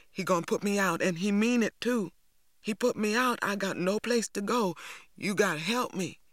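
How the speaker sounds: sick, frightened plea; desperate pleading. A narrator's reading. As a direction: beg for help, climbing in pitch as fear builds. Hurt boy begs, fearing his father.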